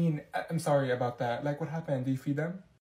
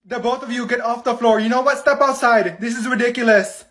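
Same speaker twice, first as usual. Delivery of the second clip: loud, higher, laughing-through scolding; half-laughing exasperated yell; 5 semitones higher, 9 dB louder than usual. Acted. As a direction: order them off the floor, fed up. Scolding two kids on floor.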